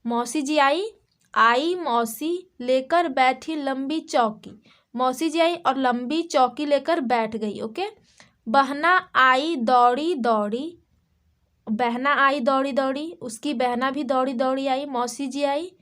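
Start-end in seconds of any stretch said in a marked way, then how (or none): 1.3-4.6 put-on slow sing-song reading of a children's rhyme; rhyme recitation. Shown as a demonstration. Teacher to kids, reciting the rhyme slowly. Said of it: "okay, देखिए". 8.5-13.1 put-on slow sing-song reading of a children's rhyme; rhyme recitation. Shown as a demonstration. Teacher to kids, reciting the rhyme slowly. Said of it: "okay, देखिए".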